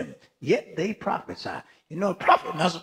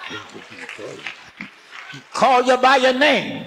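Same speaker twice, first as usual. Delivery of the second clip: slow emphatic; 3 dB louder, much slower than usual. Real, not acted. Preacher emphasizing God's call.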